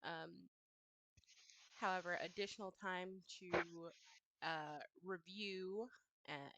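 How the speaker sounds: measured, businesslike offer; negotiator voice. Acted. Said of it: "in her best negotiator voice".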